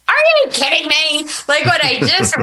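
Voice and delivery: as if the screen just read her journal; stunned disbelief. Retold or imitated. Retold shock at sermon video.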